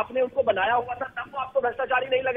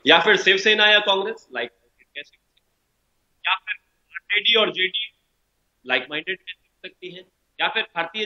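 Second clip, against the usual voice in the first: bad connection; 5 semitones lower than usual. Real, not acted. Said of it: "आपकी आवाज cut cut के आ रही है".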